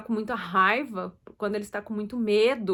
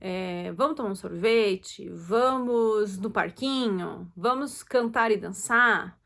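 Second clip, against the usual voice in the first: cheerful invitations; slower than usual. Shown as a demonstration. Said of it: "você mostra pro teu filho".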